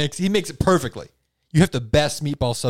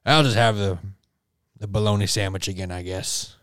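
Big Chain Billy; 5 semitones lower than usual. Acted. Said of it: "then he says".

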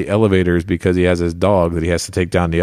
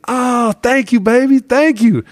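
much higher, easygoing voice imitating the comedian; tossing back a breezy thank-you, pitched up high; celebrity's thanks; 3 dB louder, slower than usual. Comedian thanking a fan for the jacket compliment, high breezy imitation. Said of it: "He was like".

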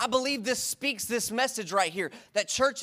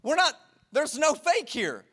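higher, slow, earnest denial; earnest insistence; 5 semitones higher than usual. Retold or imitated. Pastor answering the stranger's question, slow earnest insisting. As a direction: insist sincerely there's no faking. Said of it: "I was like".

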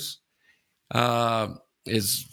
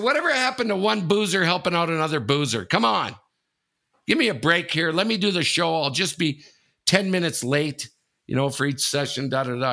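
higher, half-joking plea for a break; pleading; 5 semitones higher than usual. Retold or imitated. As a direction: wheedle him like an old drinking buddy. Begging the director for leniency.

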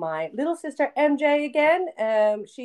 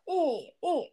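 imitated film noise; 6 semitones higher, 6 dB quieter than usual. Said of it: "he's like".

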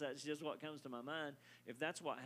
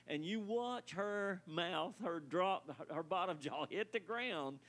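preacher voice. Real, not acted. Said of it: "that was my preacher voice".

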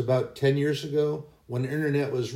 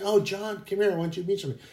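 put-on higher, calling voice of the young woman; 6 semitones higher, much faster than usual. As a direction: call him over brightly to show him off. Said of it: "this is".

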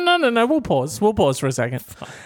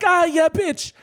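high, hammed-up boyfriend cry; mock outburst; 13 semitones higher, much slower than usual. Boyfriend reacting to kept gift, hammed-up outburst. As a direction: blurt it high in a mocking send-up.

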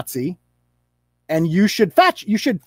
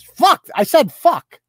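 slow, high, loud showy cursing; hammed-up defiant potty mouth; mock defiant swearing; 9 semitones higher, 6 dB louder, slower than usual. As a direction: parody someone proud of swearing, punched out slowly. Mimics her showy swearing.

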